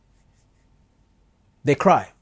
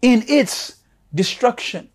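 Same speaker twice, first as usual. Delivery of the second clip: a lightly voiced divine plea, higher on the commands; God pleading with his people, a touch higher and slower at the end; voicing God's call; 4 semitones higher than usual. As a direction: call them out tenderly as God. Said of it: "he's saying to you".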